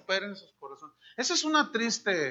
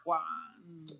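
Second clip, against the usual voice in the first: exasperated wife, scoffing at his bla bla; fed-up wife demanding proof; desperate wife. Retold or imitated. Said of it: "la señora desesperada dice". (esposa harta y desesperada, en tono de burla)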